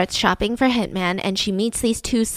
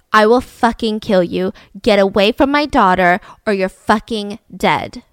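menacing threat; 2 semitones lower than usual. Retold or imitated. Father to his daughter's boyfriend with rifle in hand, menacing threat. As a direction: warn him off with hard, deliberate words.

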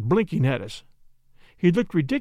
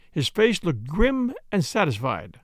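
ordinary delivery, nothing marked

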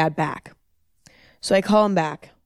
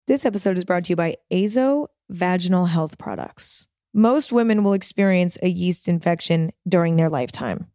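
steady sponsor-read voice; smooth, even advert delivery. Acted. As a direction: read it like a podcast ad spot.

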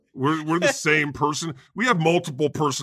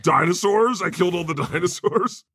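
boastful God; 2 semitones higher than usual. Acted. God voiced boasting, laughing.

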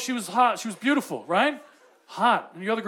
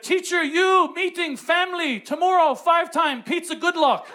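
lightly put-on broken English, a little higher; Konglish text message; 4 semitones higher than usual. Former kindergarten pupil texts his teacher, lightly voiced Konglish. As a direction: read it as a hint of stilted Konglish. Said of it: "I speak fluent Konglish".

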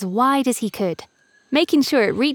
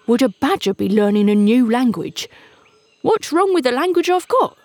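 slow, huffy gruff badger; a badger offended and huffing; 3 semitones higher, 3 dB louder than usual. A narrator's reading. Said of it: "slowly and not a little huffily".

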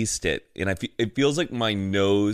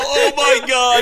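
loud, high cry of burning pain; nose burning; 10 dB louder, slower than usual. Real, not acted. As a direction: yelp as the spice burns your nose. Burn hits after the snort.

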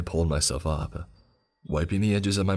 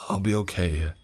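quivering; 3 semitones higher than usual. Acted. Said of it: "I quivered".

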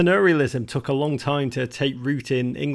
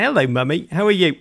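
posh polite voice; 2 semitones higher, faster than usual. Retold or imitated. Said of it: "run to the car and be like".

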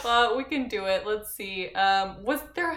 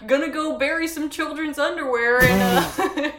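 laughing; 6 semitones higher, 7 dB louder than usual. Pretend. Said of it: "I don't wanna be like".

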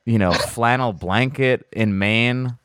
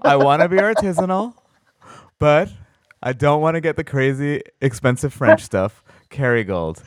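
mock Kerrygold buyer; 4 semitones higher than usual. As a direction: play a wannabe artisanal snob. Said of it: "It's like".

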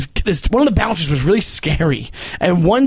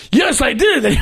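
bouncer shouting back, higher; mock shout; 7 semitones higher, much slower than usual. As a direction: shout the answer across the road. Bouncer answering across street.

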